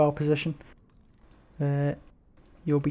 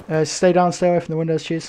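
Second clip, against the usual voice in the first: urgent order; 6 dB louder than usual. Real, not acted.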